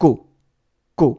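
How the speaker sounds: "Q" with a loud, hard onset. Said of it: "marcar más el inicio de la nota".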